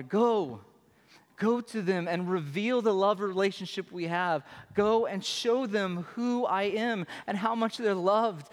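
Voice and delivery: lightly voiced, warm and eager Father; a hint of a loving father urging his son on; Father sending the Son. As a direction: send him off with open arms.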